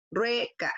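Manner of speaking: "Rueca" split, RUE held before "ca"; stress on RUE. Shown as a demonstration. Teacher shows the matching vowels, stressing RUE in "Rueca". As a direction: stretch RUE in "Rueca", then add the ending. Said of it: "Desde ahí en adelante tienen que repetirse".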